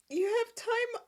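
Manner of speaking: high, disbelieving question; incredulous. Retold or imitated. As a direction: scoff in disbelief. Mocking disbelief at Cricket.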